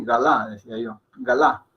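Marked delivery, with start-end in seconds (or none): 0.0-0.5 "galá" Spanish-style with both A's full; learner's mispronunciation. Retold or imitated. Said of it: "tendía a pronunciarlas así". 1.2-1.7 "galá" in two full syllables; Spanish-style full vowels in "galá"; learner's mispronunciation. Retold or imitated. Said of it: "tendía a pronunciarlas así".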